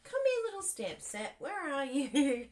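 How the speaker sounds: high, loud coaxing call; calling the stamp set like a lost kitten. Pretend. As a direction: coax it out like a pet. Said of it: "I'm like".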